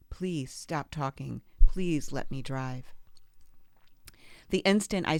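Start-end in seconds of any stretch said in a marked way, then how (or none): 0.1-2.9 a wife calmly asking the men to let her drive. Retold or imitated. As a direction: keep an even, slow tone so nothing escalates. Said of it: "I calmly repeat".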